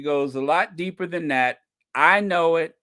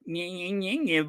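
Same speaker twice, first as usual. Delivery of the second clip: soft, quiet nyeh-nyeh taunt; a playful mocking nyeh sound; 2 semitones higher, 5 dB quieter than usual. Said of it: "When Michelle does that".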